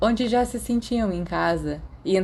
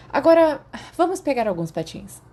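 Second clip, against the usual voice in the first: excited; 7 semitones higher, 4 dB louder than usual. Acted. Sirius cheerfully urges skating.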